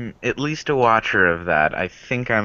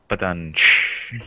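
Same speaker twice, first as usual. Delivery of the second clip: put-on Russian accent. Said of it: "Like my Russian accent".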